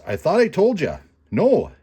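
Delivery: mad muskrat. Acted. Muskrat gets mad, refuses.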